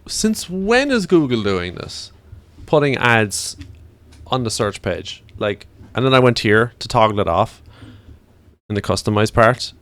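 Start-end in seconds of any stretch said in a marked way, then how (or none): 0.1-5.2 high, slow, incredulous; retold disbelief. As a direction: act baffled at the change. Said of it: "I'm like".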